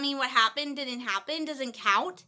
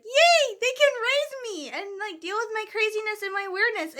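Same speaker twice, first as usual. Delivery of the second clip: giddy cheer; 6 semitones higher than usual. Retold or imitated.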